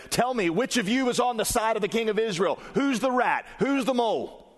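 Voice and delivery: the king bellows at his officers; demanding king. Acted. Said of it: "demanded of them".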